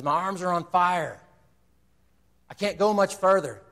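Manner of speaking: mild imitation of a player crying out in pain; mock pained yell. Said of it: "Brock Kelly starts to yell in pain".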